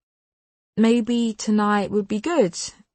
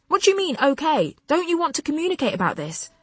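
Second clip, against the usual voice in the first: indignant demand; 8 semitones higher than usual. Acted. Girlfriend pushes back at Tom.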